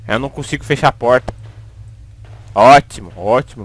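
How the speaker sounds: ordinary delivery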